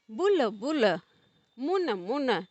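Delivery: short quick उ in बुल and मुन; said quickly. Shown as a demonstration. Teacher showing the short उ to students, quick short words. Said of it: "जल्दी से बोला जा रहा है".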